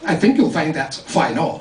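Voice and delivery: put-on English-accented schoolboy correcting grammar. English boy correcting playmates' speech, correcting English accent. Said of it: "I used to correct their English".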